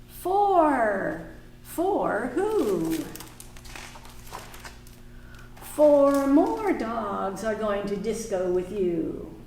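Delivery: slow, sing-song storybook read; reading to children. Acted. Teacher reading a picture book aloud to the class. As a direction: read it slowly to little listeners.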